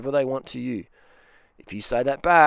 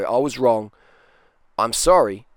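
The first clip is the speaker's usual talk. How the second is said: louder, owning it openly; public apology; 6 dB louder than usual. Shown as a demonstration. A real man apologising publicly, loud and firm. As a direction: own it out loud for the crowd. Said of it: "But publicly, a real man can go".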